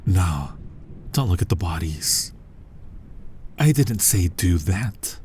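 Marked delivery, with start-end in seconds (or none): 0.1-0.5 hushed whisper. Acted. Hunter whispers to dazed victim, hushed. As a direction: lean in and whisper it.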